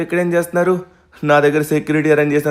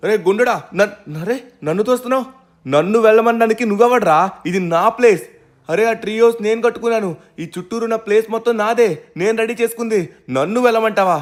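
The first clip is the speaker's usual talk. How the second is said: indignant, pitched-up yelling at the guard; angry protest; 4 semitones higher than usual. Acted. Owner yelling higher at a guard who shoves him off his land, outraged. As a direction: rage at being shoved off your own land.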